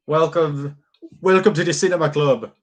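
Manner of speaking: a put-on Finnish accent, pitched a bit high. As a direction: greet them in a lightly mock Finnish accent. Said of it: "That was my Finnish accent".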